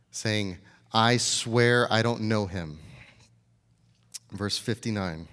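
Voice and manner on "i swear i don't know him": slow, louder acted oath; sworn denial. Peter denies Jesus with an oath, slow emphatic denial. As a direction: swear it slowly and firmly. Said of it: "he denied it with an oath".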